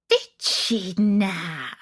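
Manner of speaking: put-on slow, musing old witch; drawn-out, pondering hag; thoughtful witch. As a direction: witch weighing the girl's words, slow and musing. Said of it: "said Baba Yaga thoughtfully".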